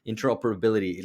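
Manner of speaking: "Interoperability" said carefully, a touch firmer; "Interoperability" as a deliberate second attempt. Shown as a demonstration. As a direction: take care over each syllable of "Interoperability". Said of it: "I'm gonna try to say that slowly".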